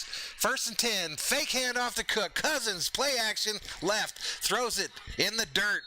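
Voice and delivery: play-by-play call. Acted. Streamer calls the Vikings play live, announcer style.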